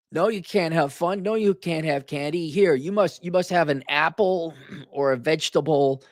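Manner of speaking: prim killjoy. Acted. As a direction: imitate a fussy grown-up forbidding candy. Voices killjoy handing out treats.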